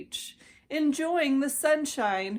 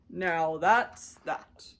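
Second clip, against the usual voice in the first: slow elephant voice; 4 semitones lower, much slower than usual. Acted. Horton satisfied.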